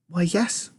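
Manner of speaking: hushed little voice; whispered. A narrator's reading. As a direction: answer very softly, almost whispering. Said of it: "whispered Charlie".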